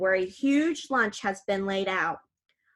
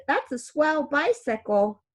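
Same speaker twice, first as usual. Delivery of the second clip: stunned; 4 semitones higher than usual. Acted. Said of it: "I say, stunned".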